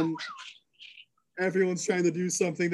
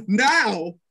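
higher, louder barked signal; sharp command; 6 semitones higher, 6 dB louder than usual. Acted. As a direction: snap the order to attack. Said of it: "from Shirlene".

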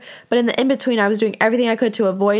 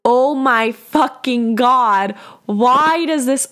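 yelling. Real, not acted. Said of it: "oh, I'm yelling now".

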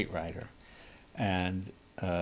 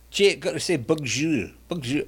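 put-on Scottish accent; 3 semitones higher than usual. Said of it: "she'd say bonjour with a Scotch accent".

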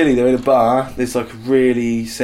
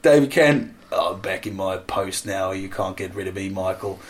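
David Kent; 3 semitones lower than usual. Acted. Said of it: "And David, uh, David Kent".

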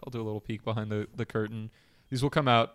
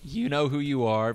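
cracking voice on you; 3 semitones higher than usual. Real, not acted. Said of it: "voice crack on the U".

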